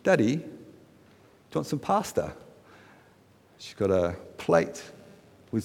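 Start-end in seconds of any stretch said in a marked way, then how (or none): 0.0-2.3 lightly voiced little girl's question, higher and softer; a hint of a little daughter, soft and slow; young daughter. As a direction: imitate a small child offering food, slowly. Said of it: "she says".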